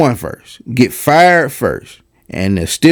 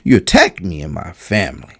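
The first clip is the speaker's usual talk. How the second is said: lightly imitated sullen, low voice; mock wounded seriousness; 6 semitones lower than usual. Commentator quoting the athlete's complaint, mock-sullen low voice. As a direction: drop low, mimicking his hurt gravity. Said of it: "just talking through his teeth".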